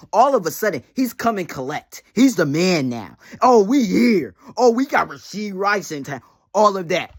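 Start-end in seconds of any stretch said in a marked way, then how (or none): 3.4-6.2 mock bragging. Mocking rival's bragging.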